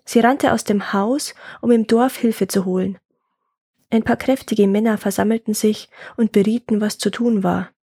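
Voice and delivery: measured folk-tale narration; story narration. A narrator's reading. Telling a woodcutter's folk tale, story narration. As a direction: read it as a tale for listeners.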